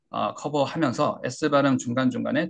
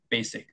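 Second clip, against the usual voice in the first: 베이식 starting high and falling low; 베이식 with a clear downward step; 5 dB quieter than usual. Shown as a demonstration. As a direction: drop from 베이 down onto 식 in 베이식. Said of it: "높음에서 낮음으로 떨어지게".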